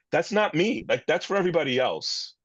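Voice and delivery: retold righteous brush-off; arrogant and righteous. Man recalling how he brushed off facilitators, arrogant and righteous. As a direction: dismiss it as beneath you, pitch lifted at first. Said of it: "Really arrogant and righteous".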